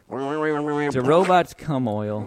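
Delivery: drawn-out, grossed-out question; slow disgusted question. Pretend. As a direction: stretch it out in mock disgust.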